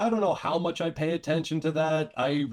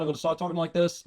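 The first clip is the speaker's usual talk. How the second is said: put-on quicker old-time New York gangster accent; mugsy New York accent; faster than usual. Shown as a demonstration. Warning how anger brings it out, mugsy New York accent. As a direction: slip into a thirties New York mug's accent. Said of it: "nineteen thirties mugsy fucking New York accent's".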